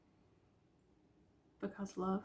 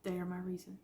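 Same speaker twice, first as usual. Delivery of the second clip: teary-eyed. Real, not acted. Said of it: "I didn't mean to get all teary-eyed".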